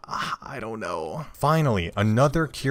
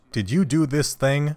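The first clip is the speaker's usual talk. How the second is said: lightly voiced higher courtroom question; a hint of a bored judge; mock judge voice; 4 semitones higher than usual. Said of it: "It's just like".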